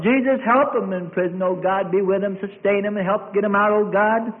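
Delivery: pleading prayer rising in pitch; fervent prayer. Acted. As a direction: beg God for Peter, building. Saints praying for Peter.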